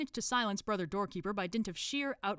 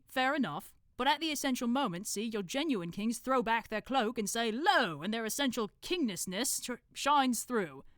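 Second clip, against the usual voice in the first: higher, louder expert in a put-on accent; Brother Watchtower; 6 semitones higher, 5 dB louder than usual. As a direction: expound grandly on true kingship. Watchtower explains kingship.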